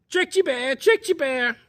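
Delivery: very high, loud gloating squeak; gloating chipmunk. Acted. Escaped Chipmunk gloating at Bear in a very high squeak. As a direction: crow over the trick.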